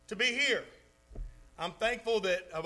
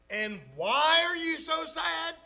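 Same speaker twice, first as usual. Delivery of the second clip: higher, puzzled ask; bewildered question; 6 semitones higher, 3 dB louder than usual. Retold or imitated. Bewildered friend asks the rich man why he's sad, puzzled and higher. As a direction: ask it like none of this adds up.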